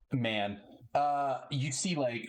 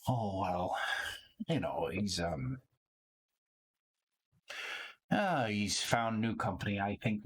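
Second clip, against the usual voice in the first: put-on a guarded old barkeep, lowered voice; 2 semitones lower than usual. GM voices wary innkeeper NPC.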